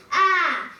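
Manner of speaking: mild read-aloud cry of "ah"; pained scream. A narrator's reading.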